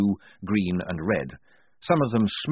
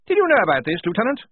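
loud, higher officer bark; 12 semitones higher, 6 dB louder, faster than usual. Acted. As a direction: snap it out at a subordinate. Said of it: "he barked".

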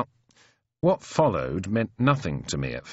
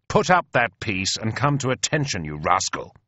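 officer's raised-pitch order; commanding. Acted. Colonel bringing an unruly soldier to attention, commanding. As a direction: order him to heel.

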